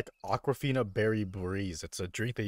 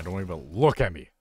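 mock indignation, louder on LOOK; a little emotional; 6 dB louder than usual. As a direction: get worked up, punching the word look. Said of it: "getting a little emotional".

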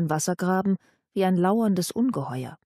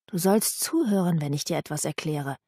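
hissed; 3 semitones lower than usual. Acted.

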